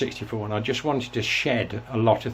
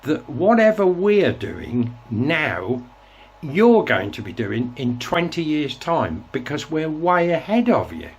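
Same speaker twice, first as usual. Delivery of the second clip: louder, slow, pointed mock telling-off; retold furious retort; 4 semitones higher, 4 dB louder, slower than usual. Telling off the BBC DJ, louder and slower retold anger. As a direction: lay into him word by word. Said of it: "I was furious".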